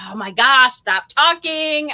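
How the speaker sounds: drawn-out, rising "stop talking"; silently begging someone to wrap it up, slowly; mock exasperation. Dying to tell her boss, exasperated. Impatient to break news, coworker chatters.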